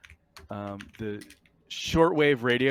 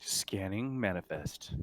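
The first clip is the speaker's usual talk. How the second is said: computer voice; 9 dB quieter, slower than usual. Acted. GM voices ship computer Mother.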